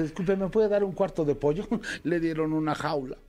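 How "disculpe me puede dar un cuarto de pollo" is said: lady at the market. Acted. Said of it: "Llegó una señora al mercado y dice".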